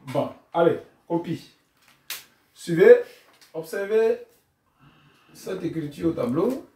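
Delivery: commanding classroom call; rally the class to copy; teacher to class. Shown as a demonstration. Teacher telling pupils to copy: brisk classroom command. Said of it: "Les élèves écrivent, on donne le signal".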